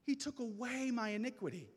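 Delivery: ordinary talk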